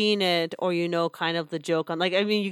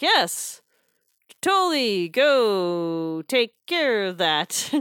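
cowardly brush-off; 3 semitones higher, much slower than usual. Retold or imitated. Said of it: "it's like".

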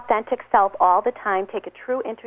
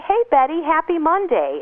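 cheerful greeting; 7 semitones higher, 4 dB louder than usual. Retold or imitated. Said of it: "And you say".

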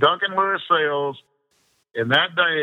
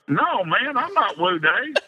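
higher, laughing denial; 6 semitones higher than usual. Retold or imitated. Man telling vendors he is not Woo Days, laughing. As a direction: deny it while laughing. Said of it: "I go".

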